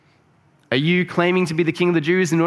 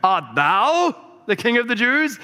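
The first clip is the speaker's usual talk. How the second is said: slow, higher, grand stage voice; Shakespearean delivery; 8 semitones higher than usual. Shown as a demonstration. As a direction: declaim it like a Shakespeare actor. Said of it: "Shakespeare on".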